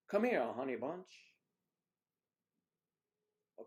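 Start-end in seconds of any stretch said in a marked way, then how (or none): 0.1-1.3 pet name call. Shown as a demonstration. Trying out pet names.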